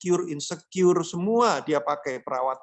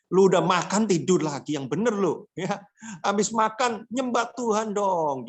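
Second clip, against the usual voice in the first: mock scolding; 3 semitones higher than usual. Imagined angel scolding.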